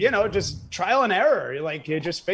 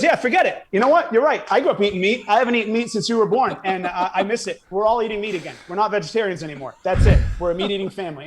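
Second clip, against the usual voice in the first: imitating mom, pitched higher and louder, fired up; mom's big announcement; 3 semitones higher, 4 dB louder, faster than usual. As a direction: mom declaring it's over, all meat now. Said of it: "She goes".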